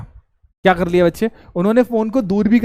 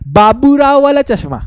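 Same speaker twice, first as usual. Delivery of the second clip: words thrown out high and loud; a joking, louder, higher burst; excited punchline; 6 semitones higher, 5 dB louder than usual. Real, not acted. Teacher names Baburao glasses.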